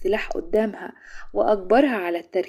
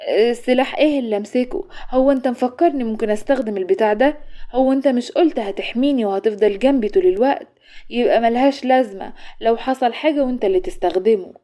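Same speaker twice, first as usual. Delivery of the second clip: alarmed; 2 semitones higher, 3 dB louder than usual. Acted. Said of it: "شروق ردت عليه بفزع".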